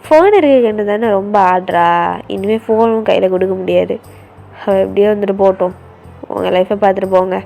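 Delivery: low, loud telling-off; angry brother on the phone. Acted. Brother scolding his sister's friends over the phone, low and angry. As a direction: warn the friends off, fast and firm.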